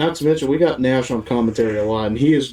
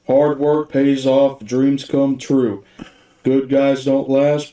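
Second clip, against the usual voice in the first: slow quote delivery; much slower than usual. Retold or imitated. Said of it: "one of the greatest quotes ever".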